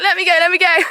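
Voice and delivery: a light pretend horse, eager; voicing the horse. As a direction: play the pony begging to run. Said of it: "He's like".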